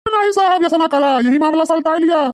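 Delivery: high, begging tone; a touch of comic wailing; pleading. Acted. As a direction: beg him not to take you in. Old man begs to avoid lockup.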